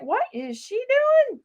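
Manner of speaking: high, slow mock-exasperated viewer voice; sassy onlooker teasing her mistake; imitating viewers. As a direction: viewers heckling that the answer was on the card all along. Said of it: "I bet you guys were like".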